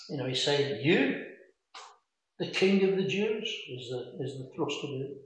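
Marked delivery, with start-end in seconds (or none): 0.8-3.5 rising, disbelieving question; a doubtful, faintly sarcastic "You?"; incredulous. Retold or imitated. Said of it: "at best incredulous, you know, at worst sarcastic".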